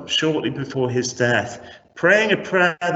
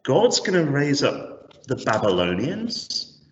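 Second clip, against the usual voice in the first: acted dismayed disbelief, rising into a question; imagine dreading the news, questioning it incredulously; sinking in terror. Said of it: "sinking in terror".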